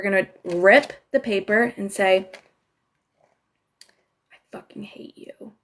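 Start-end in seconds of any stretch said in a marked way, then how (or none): 4.3-5.5 barely voiced, breathy whisper of rage. Shown as a demonstration. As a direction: whisper it to yourself through the teeth. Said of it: "Say it out loud".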